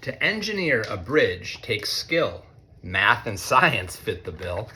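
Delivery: lightly sing-song storybook reading; reading to children. A narrator's reading. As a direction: read it like a picture book to a class. Reads picture book to students.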